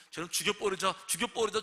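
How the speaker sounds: rising mob cry to kill; angry mob shout. Retold or imitated. Angry crowd calls to kill.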